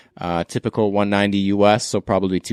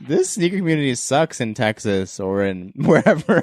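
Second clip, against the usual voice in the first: laughing mock quote; 5 semitones higher than usual. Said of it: "They're like".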